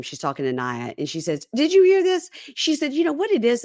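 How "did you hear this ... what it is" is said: high-pitched acted exasperation; retold indignant venting. Shantae complaining to Naya about him, retold indignant venting. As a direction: act out venting to a friend, pitched way up.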